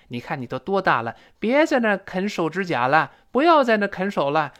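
lightly acted nagging mum, pitch rising; mock motherly telling-off; scolding mother. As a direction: chide a child who should know better. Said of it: "比如妈妈对儿子说".

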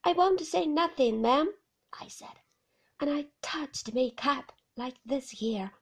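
humble Ben answering the lady; lightly voiced Ben, meek; Ben's voice. Ben quoting himself.

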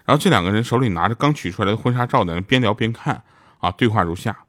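ordinary delivery

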